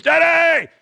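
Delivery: loud, high calling out across the house; child calling for dad. Retold or imitated. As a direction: holler for Dad like a kid searching every room. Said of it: "he's screaming the same thing".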